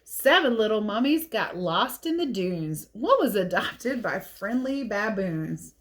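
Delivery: put-on lively read-aloud for kids; picture book reading. A narrator's reading.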